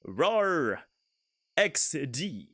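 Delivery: a hint of a slow, menacing villain with Obama's cadence; lightly voiced evil Obama. Shown as a demonstration. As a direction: try to growl it like a villainous president. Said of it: "Let me, let me try that line too".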